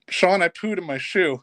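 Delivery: laughing through quote. Retold or imitated. Retelling kid's confession, laughing.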